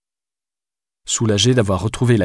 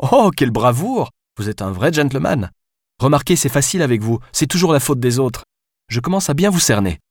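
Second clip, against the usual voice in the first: biting mockery, pitched higher; sarcastic; 5 semitones higher than usual. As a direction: needle him with scorn. Alice mocks Gabriel's excuse. (Alice se moque de Gabriel, d'un ton sarcastique)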